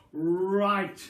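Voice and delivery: loud, quick shout. Acted. Mister Cranky hopping about, loud shout. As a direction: bark out the decision. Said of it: "shouted Mister Cranky".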